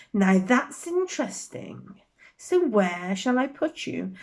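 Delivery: lightly voiced sorting hat, musing and weighing him up; a hint of a wise old hat thinking aloud; small voice. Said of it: "said a small voice in his ear".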